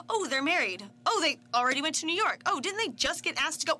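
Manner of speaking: lightly acted confusion; mock bewilderment. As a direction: play the baffled viewer trying to keep up. Acting out confused viewers' reactions.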